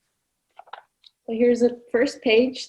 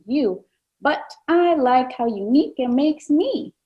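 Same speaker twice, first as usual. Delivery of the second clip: cockapoo; 3 dB louder than usual. Acted. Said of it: "said the cockapoo".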